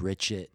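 "Richard" ending in a T, like "Richit"; "Richard" pronounced "Rich-it"; final D as T. Shown as a demonstration. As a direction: say "Richard" without the R, closing on a T. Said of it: "turning D's at the end of names into T's".

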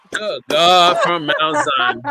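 slow exclamation breaking into a laugh; drawn out, laughing through it; preacher exclamation laughing. Acted. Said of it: "Hand clap her one more time".

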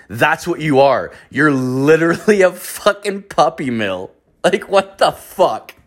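rising high-pitched indignation; exasperated rant. Retold or imitated. Storyteller calling the surrogate a puppy mill, exasperated. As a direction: build to an incredulous outburst.

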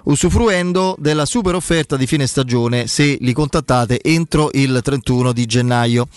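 upbeat sponsor read; infomercial. Acted. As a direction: read it like a radio ad. Host reads sponsor ad.

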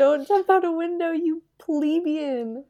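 drawn-out haughty scolding; mock scolding. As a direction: sneer the insult slowly.

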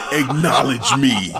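measured, level quote of Roman; imitating Roman's demand. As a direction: say it calmly, just laying down the demand. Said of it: "when he started saying that again".

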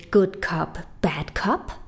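whispered secret to the crowd. Acted. Poet confiding a secret to the audience, whispered. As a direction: lean in and whisper it. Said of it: "ich will euch mal was verraten".

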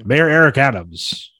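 lightly put-on mayor voice; a hint of a politician announcing a policy; Eric Adams. Host imagines mayor instituting new light policy, light impression. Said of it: "I don't know why he sounds like that".

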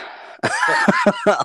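loud high laugh; burst of laughter. Real, not acted. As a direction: break into laughter. Laughing at the mess.

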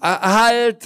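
sharp high shout; startled cry of halt; calling out. A narrator's reading. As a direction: shout to stop him at once. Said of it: "rief Herr Taschenbier".

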